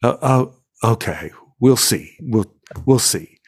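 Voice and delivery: hesitant, unconvinced hedging; doubtful. Retold or imitated. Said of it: "looked askance and went like".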